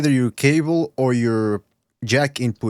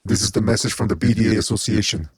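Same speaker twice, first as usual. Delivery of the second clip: menacing announcement, louder, through heavy distortion; distorted villain voice; 3 dB louder than usual. Pretend. Host proclaiming the BDA message as a distorted villain. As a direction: proclaim it like a movie killer on the phone. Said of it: "You sound like the fucking killer from Scream".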